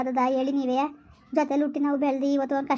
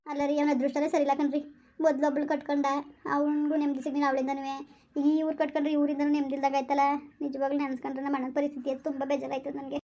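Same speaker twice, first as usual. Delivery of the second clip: softer, sorrowful lament; sad; 5 dB quieter than usual. Acted. Wife telling husband of her brother's troubles, sadly. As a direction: let the worry for her brother weigh each word.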